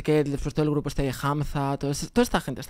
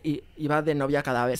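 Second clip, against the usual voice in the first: ordinary talk, nothing marked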